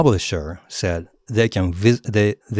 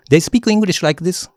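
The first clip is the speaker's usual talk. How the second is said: much higher, pinched from the top of the throat; high thin voice; 12 semitones higher, 5 dB louder than usual. Shown as a demonstration. Showing the wrong way, high and louder. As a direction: squeeze it up high. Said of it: "is the opposite of".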